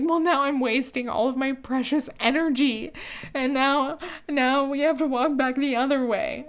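mildly whiny mock complaint; retold fit. Girlfriend retells blaming boyfriend for the detour, mild mock fit. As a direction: grumble as if re-enacting a small fit. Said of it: "started to throw a fit".

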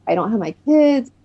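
reenacted overwhelmed outpouring; breaking down. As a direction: recount it as a distressed, high-pitched plea. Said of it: "I kinda broke down".

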